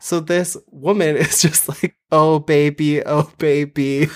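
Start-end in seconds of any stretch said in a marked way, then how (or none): 2.1-4.1 put-on deadpan flat oh baby; monotone voice. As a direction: say it in a bored monotone. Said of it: "In the most monotone voice".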